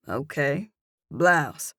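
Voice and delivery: amused teasing concession; teasing, taunting. Acted. Man taunting her about her blouse, teasing. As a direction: humour her with a mocking grin. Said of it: "His tone is teasing, taunting".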